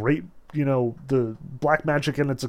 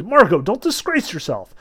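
pained plea; 5 semitones higher, 6 dB louder than usual. A narrator's reading. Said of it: "the master cried painfully".

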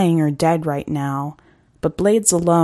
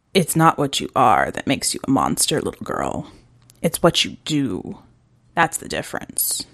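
lower, calm hunter voice; gentle hunter; 4 semitones lower than usual. Acted. Hunter calmly teaching the girl about monsters. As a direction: speak down kindly to the girl.

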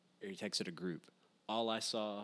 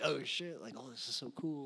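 retold excitement; 4 semitones higher than usual. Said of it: "I was like".

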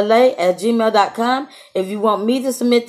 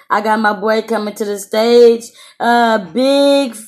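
louder, drawn-out intro for the next act; stage announcer; 4 dB louder, slower than usual. Real, not acted. Host brings his boy to the stage, announcer style. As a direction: announce the artist like a show host.

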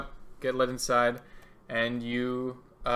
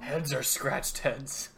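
slow, lightly gruff villain; a slow gruff crime boss; gruff Two-Face; 4 dB quieter, much slower than usual. Acted. Villain talking about his coin, slow and gruff. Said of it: "trying to do a gruff voice".

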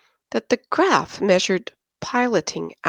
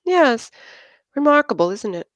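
much higher, eager pride; proud gush; 7 semitones higher than usual. Acted. Christine boasts to Erno about her boyfriend, proud gush. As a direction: show him off proudly.

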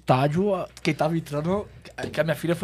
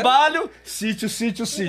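mock dilemma; 7 semitones higher, 5 dB louder than usual. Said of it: "É assim, ó".

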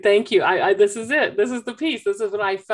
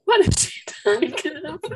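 higher, puzzled little-sister voice; baffled sister; 8 semitones higher than usual. Retold or imitated. Mother voicing the older sister shaking her head. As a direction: wonder aloud in disbelief. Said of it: "Emmy's, like, just shaking her head".

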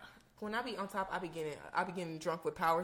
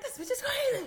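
imitating the guy. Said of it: "He was like".

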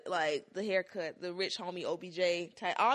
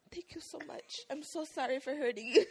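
laughing thanks; 8 semitones higher than usual. Retold or imitated. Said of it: "And I was like".

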